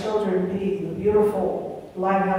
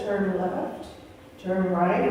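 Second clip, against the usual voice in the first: gentle GPS voice; 3 semitones lower, 6 dB quieter, slower than usual. Retold or imitated. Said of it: "kind of gently says".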